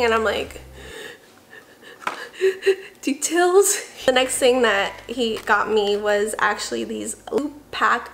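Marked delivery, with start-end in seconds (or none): 2.0-2.8 short breathy chuckle; a brief voiceless giggle; laugh. Real, not acted. Laughs at dad's travel remark.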